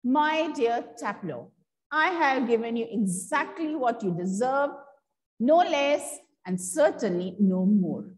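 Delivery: slow, gentle, throaty mimicry of the schoolmaster; a mild mock of a fussy old teacher, unhurried; lightly voiced gentle, throaty old teacher; imitating gentle throaty teacher. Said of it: "imitating a very gentle, rather throaty voice".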